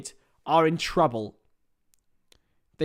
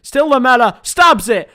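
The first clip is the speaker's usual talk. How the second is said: rising, louder live call; excited call; 6 semitones higher, 10 dB louder than usual. Real, not acted. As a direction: lift it as the chance comes. Chance on goal, rising call.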